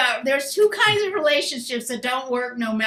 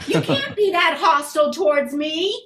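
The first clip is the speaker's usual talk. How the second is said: mock hurt pleading; 5 semitones higher than usual. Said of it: "It's like".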